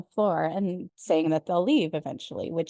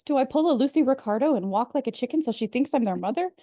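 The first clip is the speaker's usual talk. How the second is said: fast, higher-pitched retold panic; frantic rambling; 4 semitones higher, faster than usual. Frantic woman calling Luke about a missing chick, imitated as quick rambling. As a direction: rattle it off like a mildly crazed caller. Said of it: "rambling like a crazy person about the missing chick".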